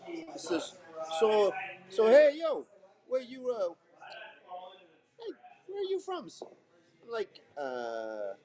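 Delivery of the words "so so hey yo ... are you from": high-pitched mock Minnesota accent; attempted heavy Minnesotan accent; best heavy northern accent. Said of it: "this is my best accent I can do".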